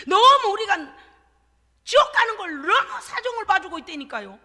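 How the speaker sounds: loud, high, driving sermon voice; fiery preaching. Acted. Pastor urging the congregation, at full force.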